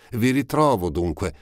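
put-on high, eager girl's voice, breathless at finding him; a ragged young girl, glad at last; Eponine's voice. A narrator's reading. Eponine finds Marius again, high and eager.

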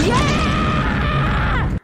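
loud, high yell of victory; 1 triumphant shout. Real, not acted. Gamer cheering as the blast hits, loud and high. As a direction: whoop it out in triumph. Celebrating in game.

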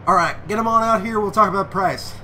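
hammed-up Texas accent order; fake Texas accent. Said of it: "I'll do a fake Texas accent for this one".

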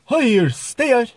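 high-pitched, slow Irish call; Irish accent. Shown as a demonstration. Vlogger playing an Irish bar owner, Irish accent. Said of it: "This is a one type of Irish".

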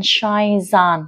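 "shines on" joined as one word; "shines on" with no break; linked sounds. Shown as a demonstration. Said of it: "là nối âm".

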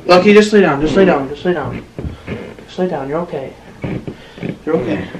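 softening, calming commands to a pet; soothing dog. Real, not acted. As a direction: hush the dog down gently. Telling the dog to lie down.

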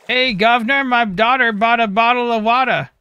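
hammed-up British accent, high and loud. Shown as a demonstration. Streamer attempting a viewer's request on command, exaggerated British accent. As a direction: belt it out as an over-the-top Brit. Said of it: "in the best British accent".

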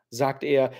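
plain reading voice

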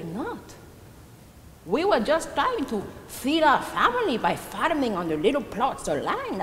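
indignant self-defence. Acted. Old widow defending her starving family to a wary neighbour, indignant. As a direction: defend yourself with hurt insistence.

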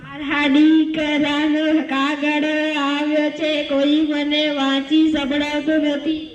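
tearful wailing. Acted. Old mother begging someone to read her son's letter, tearful wail. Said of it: "શા માટે રડો છો?".

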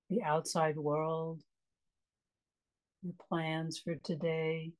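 calm meditation guide with long pauses; unhurried, spacious guiding into relaxation; guided meditation. Acted. Meditation teacher leading a class into a restful breath, calm guiding voice.

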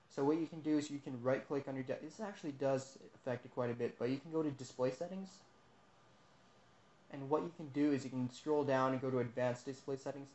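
talking with a dry mouth; dry throat, struggling to speak. Real, not acted. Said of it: "my voice is killing me because my mouth is so dry right now".

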